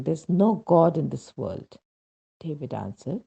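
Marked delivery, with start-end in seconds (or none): 0.0-1.8 a louder, raised declaration; retold shout. Mother shouting at her husband in grief, louder. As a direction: half-shout it out in bitter despair. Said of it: "I was shouting".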